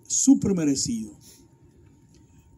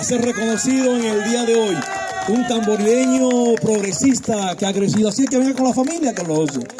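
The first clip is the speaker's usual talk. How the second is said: announcer hype; 4 semitones higher, 3 dB louder than usual. Real, not acted. MC calls family to stage.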